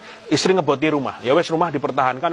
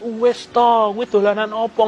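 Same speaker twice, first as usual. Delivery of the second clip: high, loud mock-tearful plea; imitated crying wife; 7 semitones higher, 5 dB louder, slower than usual. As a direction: imitate a wife's upset protest, pitched up. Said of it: "Malam-malam istriku nangis". (menirukan istri menangis, nada tinggi)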